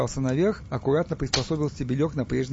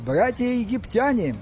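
slow, raised orator's call; weightier register; 10 semitones higher, slower than usual. A narrator's reading. Stas starts his address over, weightier and less squeaky. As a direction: proclaim it grandly, a notch below a squeak. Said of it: "регистром ниже, а потому весомее".

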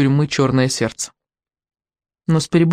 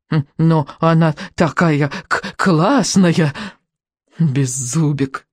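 whiny little dragon; much slower than usual. Acted. Little dragon begging for patch.

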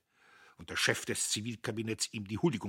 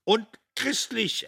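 lightly voiced pastor; 13 dB louder than usual. Zillig adds pious remark.

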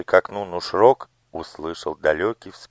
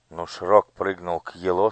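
ordinary delivery, nothing marked

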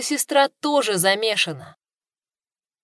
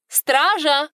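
shouting for the guards, high; loud call; 7 semitones higher, 4 dB louder than usual. Acted. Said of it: "громко крикнула она".

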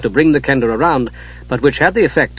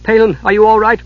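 louder, worried question; anxious; 8 semitones higher, 4 dB louder than usual. Acted. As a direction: ask afraid of the answer. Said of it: "she said anxiously".

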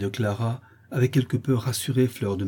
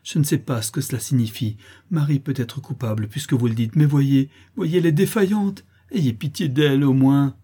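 pleading daughter; 4 semitones higher, 4 dB louder than usual. Acted. Clara begs pity for Marie.

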